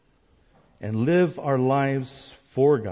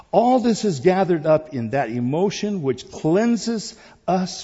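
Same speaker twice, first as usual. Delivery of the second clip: slow reading; 4 semitones higher, 6 dB louder than usual. Real, not acted. Pastor reading a long quote on worship, slow reading. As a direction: read each phrase deliberately, punching the openings, then settle. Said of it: "I'm gonna read it slowly".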